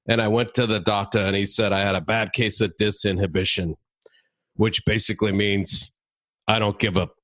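put-on lightly gravelly old-man comic; a hint of a gravel-voiced old man; Remy's gravelly voice. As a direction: imitate an elderly stand-up with a touch of gravel. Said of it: "he talks in a really gravelly voice".

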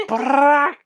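high mouth fart sound; mock fart blurt; imitated fart noise.

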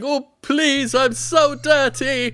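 high, slow hammed-up begging; pathetic mock plea. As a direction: beg pitifully in a put-on high voice. Acts naked man pleading from garbage can.

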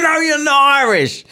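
high-pitched retold protest; mock disbelief. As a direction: contradict them in a high, incredulous mock voice. Retold argument with a workmate.

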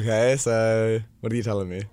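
imitating girls' fake British accent; hammed-up bad British accent; mock bad British accent. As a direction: mimic a tipsy attempt at British. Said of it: "speaking in a British accent".

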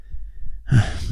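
long, soft sigh; drowsy sigh. Acted. Journal writer feeling the pills, drowsy sigh. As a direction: breathe out softly as drowsiness comes on.

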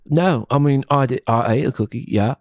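playful fake British accent; mock British accent. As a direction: put on a British accent while insisting it's normal.

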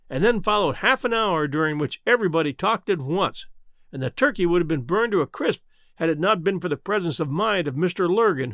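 ordinary delivery

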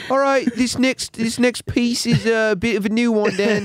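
high hammy performer voice; minstrel announcer voice. Pretend. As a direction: announce the next piece like a jester. Mock medieval performer announcing.

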